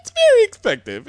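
high excited shout. Pretend. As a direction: echo it back, loud and high. Echoes the shouted quote.

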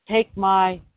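drawn-out, slow pitch of a superpower; lightly voiced nation making an offer; slow mock America pitch. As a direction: stretch policy out slowly like a sales line. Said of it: "That's how we talk".

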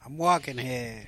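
lightly voiced ninety-year-old New Yorker; a hint of an elderly man trying New York; old-man New York accent. Shown as a demonstration. Co-host retrying his New York line, faint old-man accent. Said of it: "sounds like a ninety-year-old man accent".

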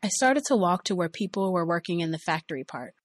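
usual speaking voice

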